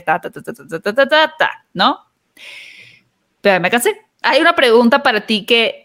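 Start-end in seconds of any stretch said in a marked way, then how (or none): 0.0-1.5 string of ta syllables standing in for words; rattled-off ta-ta-ta. Retold or imitated. Host skipping through her repeated answer, rattled-off ta-ta-ta. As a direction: reel off a canned answer as nonsense syllables, dipping low.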